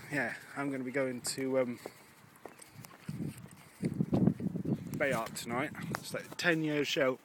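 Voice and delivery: talking while chewing gum; words round a mouthful of gum. Real, not acted. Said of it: "while I have chewing gum in my mouth".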